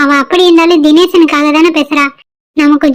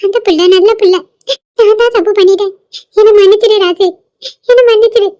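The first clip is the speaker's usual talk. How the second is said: pleading through tears, pitch rising higher; tearful pleading; 5 semitones higher than usual. Acted. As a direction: beg forgiveness while crying. Grandmother begs grandson for forgiveness.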